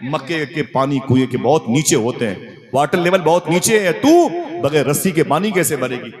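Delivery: high, incredulous question; can't believe what she sees; amazed friend. Acted. Amina's friend marvels at her going without a rope, high and incredulous. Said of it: "मेरी सहेली ने कहा".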